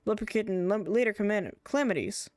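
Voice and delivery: lightly acted character dialogue; gently performed NPC voices; voicing game characters. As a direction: read the quest lines with a little theatre.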